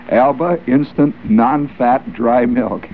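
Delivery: drawn-out, deliberate product name; slow product name. Acted. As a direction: spell out the sponsor slowly. Reading sponsor name.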